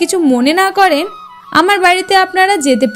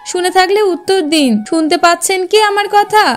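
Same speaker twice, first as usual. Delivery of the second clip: higher-pitched, anxious-to-be-heard questioning; calling out to rouse; 3 semitones higher than usual. Acted. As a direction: call to strangers who lie unresponsive. Calling to rouse people lying collapsed.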